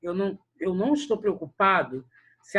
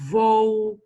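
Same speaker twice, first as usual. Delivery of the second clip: "Vou" louder with a buzzing V; vibrating V; 3 semitones higher, 7 dB louder than usual. Shown as a demonstration. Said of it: "o V vibrando".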